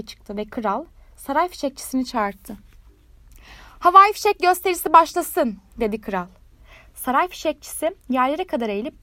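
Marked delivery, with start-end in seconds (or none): 3.8-5.6 royal command. A narrator's reading. King announces the show.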